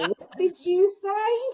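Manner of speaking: mock offended southern accent, high, slow, drawn out.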